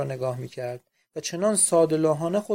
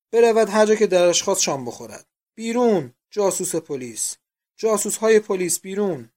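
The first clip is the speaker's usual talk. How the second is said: loud, raised jeering cries; angry shouting; 4 semitones higher, 8 dB louder than usual. A narrator's reading. Boarders driving out a police spy, shouting. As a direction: hurl it out like a hostile crowd.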